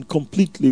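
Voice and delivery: "completely" given deliberate emphasis. Real, not acted. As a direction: lean on the word "completely". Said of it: "the emphasis on the word completely".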